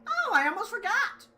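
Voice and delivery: high cackling cartoon bear; gleeful mascot bear. Plays gleeful Monokuma.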